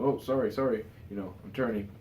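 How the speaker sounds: lightly hammed-up Thor brushing it off; Thor impression. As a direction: toss off breezy sorries like a goofy Thor. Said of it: "Thor goes".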